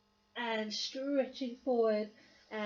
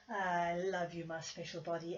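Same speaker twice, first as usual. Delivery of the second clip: softer, loving murmur to her own body; tender to herself; 4 semitones lower, 4 dB quieter than usual. Real, not acted. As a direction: say it softly, like a little love note to yourself. Affectionate talk to her own body.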